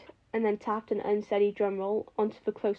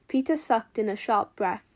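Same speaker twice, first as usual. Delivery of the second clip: ordinary delivery, nothing marked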